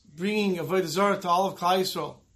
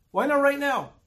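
puzzled question; 7 semitones higher than usual. Retold or imitated. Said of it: "he said, "Why did she say".

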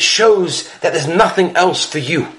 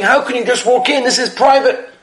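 higher, half-acted shout of rebuke; mock-shout it, pitched well up; retold shouting; 5 semitones higher than usual. Baba Sali rebukes his son at the door, mild mock shout. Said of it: "And he started shouting".

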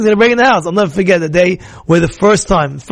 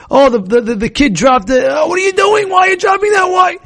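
mock angry parent shouting at a child; 8 semitones higher than usual. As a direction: blow up over the dropped thing. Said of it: "You be makpid".

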